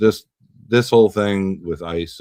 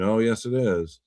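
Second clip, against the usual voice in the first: mock bickering; 4 semitones higher than usual. Acts out a pissing match.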